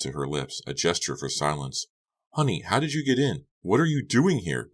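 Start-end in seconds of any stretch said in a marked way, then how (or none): 2.3-4.7 loud whisper. A narrator's reading. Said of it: "Becca demanded in a loud whisper".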